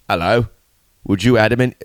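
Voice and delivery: put-on London accent. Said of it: "I could do a good London accent".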